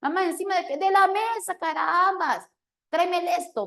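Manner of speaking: exasperated mom scolding her son, high and loud; annoyed mother. Retold or imitated. Mother's reply, still irritated.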